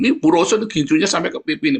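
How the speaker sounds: high, loud announcement for all to hear; public call-out. Acted. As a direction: blurt it out in front of everyone. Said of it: "di depan umum".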